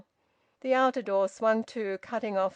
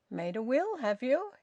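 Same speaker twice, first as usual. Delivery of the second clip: elaborate casualness; 5 semitones higher than usual. Acted. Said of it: "with an elaborate casualness".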